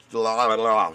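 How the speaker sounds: talking around a cigarette in the mouth; words pushed past a cigarette. Real, not acted. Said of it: "Sorry, had a cigarette in my mouth".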